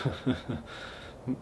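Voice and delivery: soft, breathy little laugh; sly vampire chuckle. Acted. Vampire host remembering the talented women, soft sly chuckle. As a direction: chuckle quietly to yourself.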